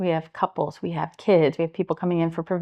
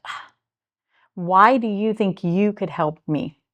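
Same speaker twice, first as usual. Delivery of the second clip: angry challenge; 2 semitones higher, 6 dB louder, slower than usual. Retold or imitated. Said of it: "or they're angry".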